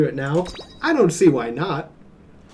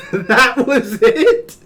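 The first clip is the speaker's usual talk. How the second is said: high, slow incredulous cry; stunned it's already over; disbelief; 8 semitones higher, 7 dB louder, much slower than usual. Real, not acted. Shocked reaction to ending.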